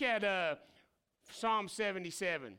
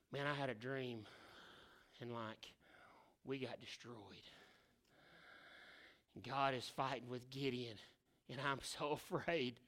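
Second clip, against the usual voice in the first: frightened soldier; 8 semitones lower, 10 dB quieter than usual. Retold or imitated. Enemy soldiers telling fearful dream.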